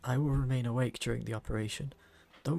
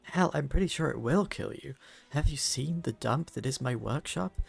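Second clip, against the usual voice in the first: anxious; 3 semitones higher than usual. Acted. Faris panicking before surgery.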